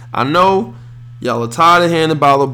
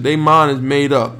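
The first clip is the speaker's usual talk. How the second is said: usual speaking voice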